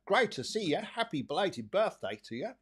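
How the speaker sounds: put-on Australian accent. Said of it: "She sounds Australian".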